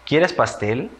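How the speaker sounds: "pastel" rising at the end as a question; question intonation. Shown as a demonstration. Teacher has children guess the sign, asking a question with rising "pastel". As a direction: ask it, lifting the pitch sharply on "pastel". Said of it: "Es una pregunta".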